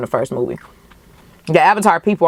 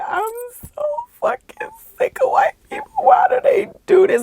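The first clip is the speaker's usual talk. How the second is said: high-pitched exasperated squeal, much higher than her own voice; exasperated outburst. Retold or imitated. Venting to viewers about watching Avatar, high exasperated squeal. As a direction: shriek it in disbelief. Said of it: "Like, I was just like".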